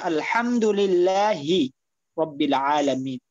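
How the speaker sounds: আলহামদুলিল্লাহি রাব্বিল আলামিন recited slowly with the ha sounded clearly; slow model recitation; tajweed demo. Shown as a demonstration. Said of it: "একটু খেয়াল করলে হয়ে যাবে".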